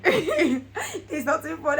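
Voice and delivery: laughing self-pitying moan; laughing wail. Retold or imitated. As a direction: whine it out half laughing. Retold moody complaint, laughing.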